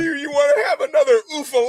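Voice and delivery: loud, high mocking promo shout; shouted wrestler promo. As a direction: yell it at the crowd like a heel.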